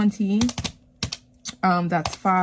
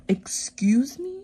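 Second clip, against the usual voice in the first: slow, higher whisper rising into a question; whispered disbelief; 4 semitones higher, slower than usual. Retold or imitated. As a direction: whisper it as if you can't believe it. Reacting to the music teacher's message.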